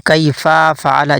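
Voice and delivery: "कैफा फअल" with the fa drawn out long; wrong long fa. Shown as a demonstration. Teacher demonstrating the stretched fa mistake. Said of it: "फा को खींच कर पढ़ते हैं".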